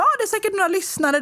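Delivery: high, quick, chirpy self-mimicry; naive optimism. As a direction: brush off any doubt in a high, naive voice. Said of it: "jag ska alltid vara så jävla naiv".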